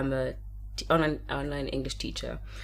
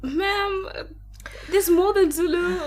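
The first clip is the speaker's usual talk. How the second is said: very high-pitched mock exasperation; exasperated reply; 13 semitones higher, 4 dB louder, slower than usual. Teacher correcting her student's assumption about Zulu, exasperated. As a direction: protest in a raised, strained pitch.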